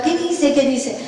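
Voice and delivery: agudo, pidiendo traducción con urgencia; insiste, con la voz subida; pregunta insistente. Retold or imitated. Le pregunta ansiosa por traducción. (pregunta impaciente y aguda)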